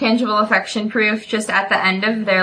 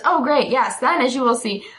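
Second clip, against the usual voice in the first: triumphant Penny; 3 semitones higher than usual. Retold or imitated. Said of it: "And Penny goes".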